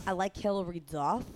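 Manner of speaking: put-on failed copy of a nasal Boston accent; unconvincing Boston accent; attempted Boston accent. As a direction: imitate a Boston accent, not quite getting it. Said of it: "No, that's not good".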